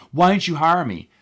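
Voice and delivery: mildly heated mock complaint; mad caller. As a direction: demand an explanation as a miffed applicant. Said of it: "people would call me so mad".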